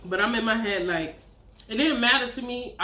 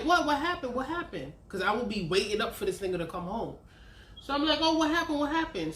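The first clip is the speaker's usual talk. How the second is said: feigned concern; 3 semitones higher than usual. Retold or imitated. Feigned worry over his news.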